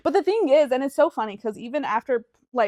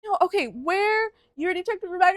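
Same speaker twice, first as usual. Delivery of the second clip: higher, halting, mildly freaked-out imitation; flustered reaction; 9 semitones higher than usual. Airport worker faced with a crying traveler, imitated flustered. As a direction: imitate someone caught off guard, stumbling upward. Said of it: "He kinda freaks out for me".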